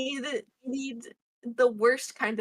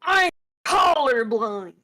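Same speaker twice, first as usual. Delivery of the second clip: mock crying; 6 dB louder, much slower than usual. Mock wail after being teased.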